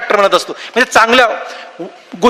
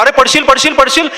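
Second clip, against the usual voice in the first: mild mock yell of alarm; mock crowd yelling; 3 semitones higher than usual. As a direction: imitate onlookers calling up a warning. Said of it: "सगळे लोक खालचे ओरडतात".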